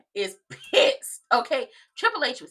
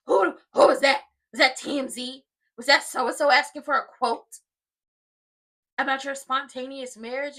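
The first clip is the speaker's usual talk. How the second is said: mock interrogation; 5 dB louder than usual. Retold interrogation on the phone call.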